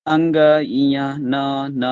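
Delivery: अंग इया न न को खींचकर बोलना; sounding out nasals. Shown as a demonstration. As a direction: stretch out अंग, इया, then न, न. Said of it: "जरा सा देखिए तो".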